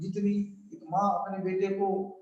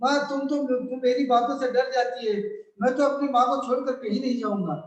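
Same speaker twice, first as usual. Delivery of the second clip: put-on laughing child; 4 semitones higher, 4 dB louder than usual. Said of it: "Rahul हंसकर".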